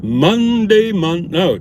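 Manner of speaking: high, loud sudden blurt; surprised correction. Real, not acted. Catching his own mistake about the day, sudden high blurt. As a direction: blurt it as you realize.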